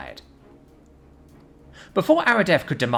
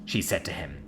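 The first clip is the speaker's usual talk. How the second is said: higher, louder menacing vow; cold threat; 8 semitones higher, 5 dB louder than usual. Acted. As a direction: press the blade and threaten. Warrior threatens with blade at throat.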